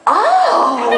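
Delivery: a high, meaningful oh; pleasured oh. Retold or imitated. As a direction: pack everything into one syllable. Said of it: "how much you can convey with one syllable".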